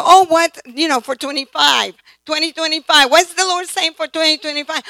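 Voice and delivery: mock panic at forgetting the word; flustered surprise. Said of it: "and you go".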